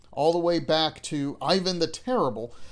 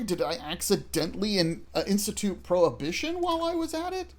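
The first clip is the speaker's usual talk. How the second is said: mock incredulous; 4 semitones higher than usual. Player reacting to game crisis.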